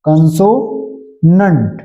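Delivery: कंसोनेंट stretched out slowly, syllable by syllable; slow repeat. Shown as a demonstration. Teacher to class, repeating कंसोनेंट slowly. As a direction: drag out कंसोनेंट so students catch it. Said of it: "ये हमारे जो हो जाते हैं कंसोनेंट".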